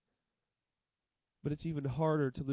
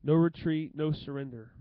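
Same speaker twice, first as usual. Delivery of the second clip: loud declaration; 5 dB louder than usual. Shown as a demonstration. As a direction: belt out NO retreat loud, then drop. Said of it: "this is where it's going right here".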